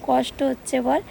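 normal talking voice

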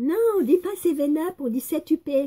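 high, loud, stern voice.

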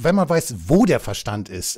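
wo stressed and slowed.

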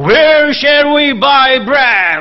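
loud, high shout at full voice. Asking whether he shouted his question to the people, demonstrate it shouting loudly. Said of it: "did He shout it out loudly".

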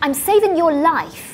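sharp, very loud, high-pitched snap. Reading a girl's line to a boy, snapping. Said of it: "she snapped".

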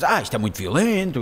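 usual speaking voice

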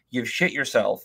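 ordinary delivery

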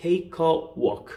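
take a walk said very slowly and deliberately. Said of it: "take a walk라는 게 있어요".

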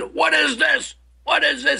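mock screaming. Retelling how he started screaming when the speaker did the same act again, retelling a scream. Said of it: "He just starts screaming".

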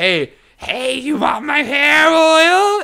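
very high, slow put-on goblin voice. Mocking a merchant selling hair oil, doing the goblin merchant from Critical Role. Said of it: "I'm doing the fucking goblin merchant".

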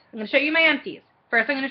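rapid, rushed, rattling delivery. Showing viewers makeup empties from the bedroom, talking really quickly. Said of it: "I'm trying to talk really quickly".

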